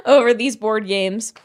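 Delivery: breathy laugh sliding into the words; laughing at herself for crying over board games. Real, not acted. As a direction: laugh at herself mid-sentence.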